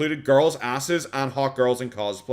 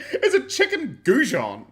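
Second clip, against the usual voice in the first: higher, slow, through laughter; laughing repeat; 10 semitones higher, 3 dB louder, slower than usual. Real, not acted. Streamer laughs at the friend's chicken goujon, laughing. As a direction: say it again while cracking up.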